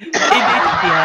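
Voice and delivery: breathless laugh through the letters. Real, not acted. Host laughing as he spells ADHD for colleagues. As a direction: giggle out the letters.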